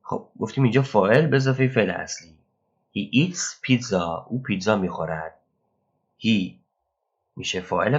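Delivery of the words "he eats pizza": slow, carefully spaced English; slow example read. Shown as a demonstration. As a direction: read it out slowly for learners. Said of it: "teacher reads example sentence".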